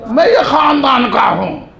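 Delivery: slow, drawn-out imitation of a boaster; mock boasting. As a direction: puff up each word in mockery. Acts out someone boasting of family.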